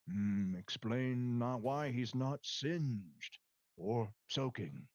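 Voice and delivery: talking tree. Acted. Tree voice, slow and deep.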